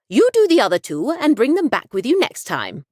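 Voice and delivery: put-on a touch of a bossy old lady; old woman voice. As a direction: hand out orders like a sharp granny. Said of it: "she said with a beady look".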